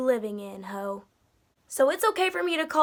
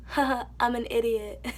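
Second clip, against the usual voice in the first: self-mocking laugh; 3 dB quieter than usual. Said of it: "type of laugh".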